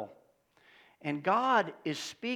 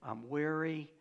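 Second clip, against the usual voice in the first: quoting weary self; 4 semitones lower, 4 dB quieter than usual. Acted.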